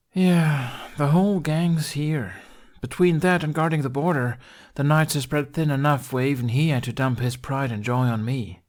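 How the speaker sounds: a hint of a fed-up knight; lightly voiced weary Astrid. Astrid griping to Hiccup about her squire, mildly weary.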